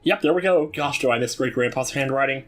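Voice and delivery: put-on high, worried girl's voice; high-pitched girl in distress; voicing the farm girl. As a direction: read her lines as a fretful young farm girl.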